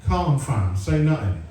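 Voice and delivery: a light hint of London roadman slang; lightly ape a teen's London street talk. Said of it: "talking like he's in an episode of Top Boy".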